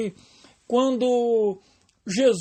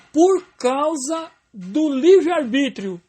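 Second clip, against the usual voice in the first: louder, slow, deliberately wrong answer; mock wrong reading; 3 semitones higher, 5 dB louder, slower than usual. Shown as a demonstration. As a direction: set up the wrong answer with a raised voice. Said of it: "Não".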